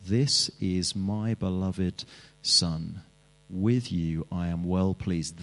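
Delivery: softly spoken divine blessing; tender blessing. Acted. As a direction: lay the words down gently and slowly. Preacher voices God's blessing.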